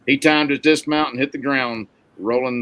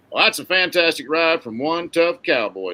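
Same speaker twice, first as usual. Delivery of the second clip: higher-pitched PA announcer call; rodeo announcer; 6 semitones higher, 4 dB louder than usual. A narrator's reading. Announcer to the rodeo crowd about Rocky's ride, announcer voice. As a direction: announce it to the whole grandstand. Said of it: "said the announcer of the P A system".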